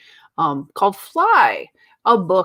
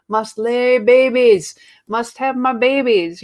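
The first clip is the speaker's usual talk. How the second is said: fly voice; 4 semitones higher, 4 dB louder than usual. Retold or imitated. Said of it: "And they're like".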